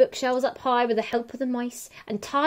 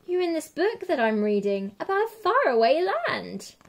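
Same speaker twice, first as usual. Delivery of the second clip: bright, higher eager voice; excited girl; 5 semitones higher than usual. Acted. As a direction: tell it with wide-eyed delight. Excited girl tells dragon.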